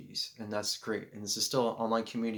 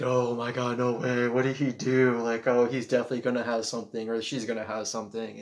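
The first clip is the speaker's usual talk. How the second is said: shocked onlookers; 5 dB louder than usual. Retold or imitated. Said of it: "everyone was looking like".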